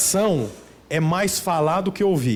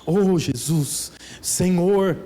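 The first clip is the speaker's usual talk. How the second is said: mock pleading prayer; much slower than usual. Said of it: "ou então assim".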